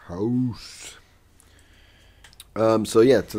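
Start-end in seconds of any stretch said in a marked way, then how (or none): 0.1-1.0 long breath of a whisper; whispered echo. Acted. Friend joins in echoing the slogan, whispered.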